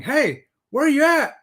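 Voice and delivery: high, loud, slow call-out; hammed-up friendly holler; mock caller voice. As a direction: sing out the greeting playfully. Reading a viewer's greeting in voice.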